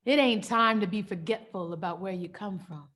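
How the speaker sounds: stern, forceful rebuke with punched openings; impassioned scolding. Acted. Mother telling her child not to start crying, impassioned scolding. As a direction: scold with rising force and swooping pitch.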